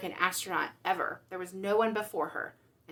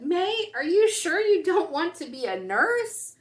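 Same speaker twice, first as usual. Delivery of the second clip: teacher voice; 9 semitones higher, 8 dB louder than usual. Acted. Teacher steering May to nursing.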